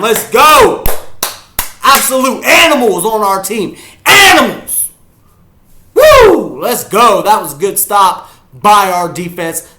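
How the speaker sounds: high whooping yell, gradually easing; jubilant shouting. Real, not acted. Fan celebrating a good stop by the defense, jubilant shouting. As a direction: crow loudly over the stop.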